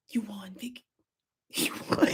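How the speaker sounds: breathy whispered defeat, soft and low; imitated whisper. Inmate conceding to Vicky, whispering. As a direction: whisper the surrender. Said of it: "she whispered it like this".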